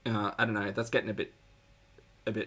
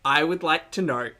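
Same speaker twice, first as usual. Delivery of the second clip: laughing; 6 semitones higher, 4 dB louder, slower than usual. Real, not acted. Host laughs over the clip.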